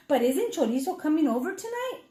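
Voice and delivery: quick, worried question; lightly voiced Mommy Mouse. Mommy Mouse reminding Papi, quick and worried. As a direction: remind him in a hurry. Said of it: "Mommy Mouse asked".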